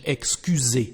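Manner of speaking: excusez with the S voiced as a Z; French liaison-style Z sound. Shown as a demonstration. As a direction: buzz the S in excusez. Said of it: "Z in French".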